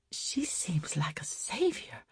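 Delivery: hushed, spent after crying; tearful whisper. Acted. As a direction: let it fall to a whisper. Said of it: "tried to talk through her sobs".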